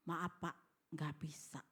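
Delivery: low, subdued retold answer; retold refusal. Husband declining the visitors' deal, low subdued refusal. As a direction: turn them down softly, pitched well down. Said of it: "Baru dia kasih jawaban".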